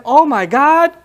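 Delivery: awestruck, as if a stunning man just walked in; sudden dazzled exclaim; mock gasp of awe. Women see Yusuf walk in.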